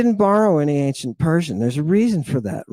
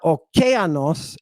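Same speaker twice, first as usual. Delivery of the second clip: "okeanos" stressed on the second syllable, KE; wrong-syllable stress; slower than usual. Shown as a demonstration. Teacher showing what it's not, stress on second syllable. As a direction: hit the KE in "okeanos". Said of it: "and it's not".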